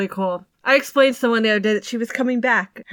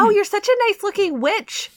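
mock cooing stranger; 11 semitones higher than usual. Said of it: "And people are like".

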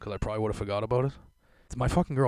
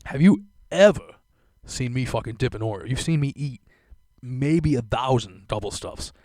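mock indignant; 4 dB louder than usual. Indignant reply to girlfriend.

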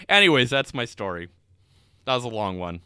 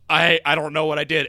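bewildered guy; 5 dB louder than usual. Retold or imitated.

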